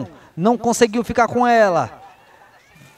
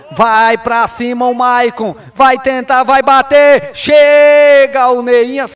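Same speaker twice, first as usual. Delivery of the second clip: louder and louder play call; building excitement; 2 semitones higher, 6 dB louder, slower than usual. Real, not acted. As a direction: build the attack loudly. Attack building, commentator rising.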